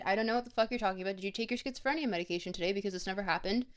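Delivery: fast, dismissive gaslighting; mock denial. Streamer jokingly denying her bad round to chat. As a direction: brush chat off like it never happened.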